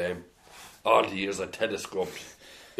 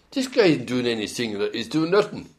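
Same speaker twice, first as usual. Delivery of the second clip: louder, higher indignant grumble, rising in pitch; grumbling complaint; 4 semitones higher, 8 dB louder than usual. Retold or imitated. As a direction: complain loudly about the boxer doing nothing. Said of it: "I used to be grumbling".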